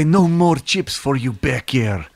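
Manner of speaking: put-on lightly Brazilian-accented mum scolding the cat; slow, mock Brazilian accent, half-hearted scolding. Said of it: "forgive my affectation, she would say".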